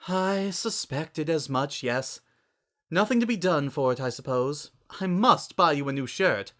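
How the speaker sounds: lightly voiced fashionista. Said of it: "somehow sounding more pained".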